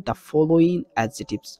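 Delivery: very slow, drawn-out dictation pace; slow teacher dictation; slow reading. Shown as a demonstration. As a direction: spell it out slowly for the class. Teacher reads exercise heading aloud.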